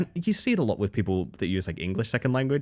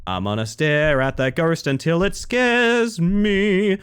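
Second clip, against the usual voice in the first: mock eager fan; much slower than usual. Voicing a ghost-game fan.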